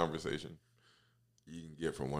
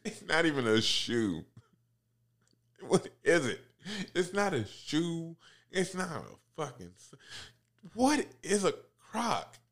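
exasperated shout; 11 semitones higher, 5 dB louder than usual. Real, not acted. Ranting about Crocs, rising.

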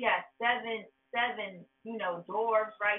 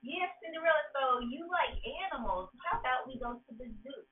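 smooth talker; 4 semitones higher than usual. Retold or imitated. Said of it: "he's gonna be like".

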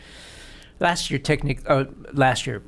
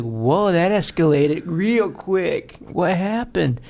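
surprised; 5 semitones higher, much slower than usual. Retold or imitated. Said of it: "I was like".

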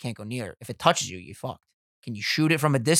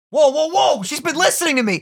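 surprised; 12 semitones higher than usual. Real, not acted. Siri suddenly answers them.

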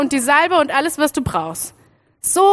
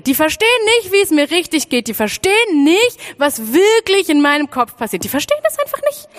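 rising exasperation, climbing higher and faster to the end; mounting frustration; 4 semitones higher than usual. Acted. A lonely child vents that nobody understands, rising frustration. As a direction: build to an outburst at the repeated nicht. Venting about not being understood.

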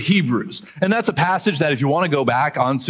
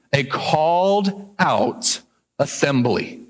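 "called" stressed, very slow; slow emphatic definition; much slower than usual. Shown as a demonstration. Pastor defining ecclesia slowly. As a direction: draw the phrase out. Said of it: "the biblical word for it is ecclesia".

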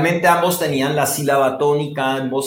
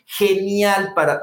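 GENIAL drawn out slowly and higher on AL; exaggerated stressed syllable; 4 semitones higher, slower than usual. Shown as a demonstration. Coach asks interviewer to watch, exaggerated stressed syllable. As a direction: stretch the last syllable of GENIAL. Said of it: "mira lo que hago".

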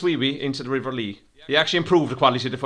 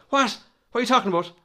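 mock surprise; 11 semitones higher than usual. Feigned confusion.

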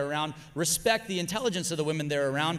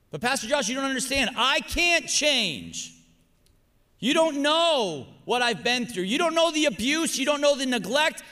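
voicing a pleading churchgoer; 6 semitones higher, 3 dB louder than usual. Voiced congregant pleading about past.

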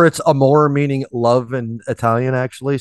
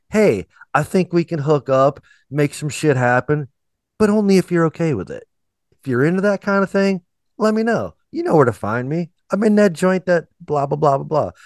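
higher-pitched, casual mock proposition; imitated polite suitor; 5 semitones higher than usual. Host voices the singer asking a girl's permission, in a higher imitated suitor voice. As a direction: imitate a guy lightly checking if she's okay with it. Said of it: "He's like".

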